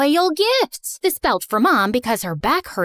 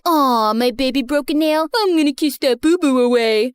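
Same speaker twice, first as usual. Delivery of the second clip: put-on baby talk. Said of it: "The guy was all like".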